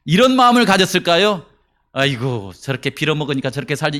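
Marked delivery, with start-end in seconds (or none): 1.9-4.0 contemptuous aside. Pretend. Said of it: "이런 생각을 했을까요?".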